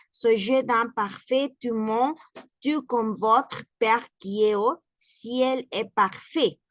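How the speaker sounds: slow, careful reading of the French verse. Shown as a demonstration. Teacher reading the verse to the class, slow and careful. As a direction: read it slowly so the class can follow. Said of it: "lo cual sería en francés".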